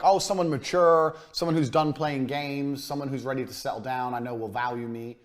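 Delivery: mock tender pitch to a lonely man; flattering answer. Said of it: "she'd be like".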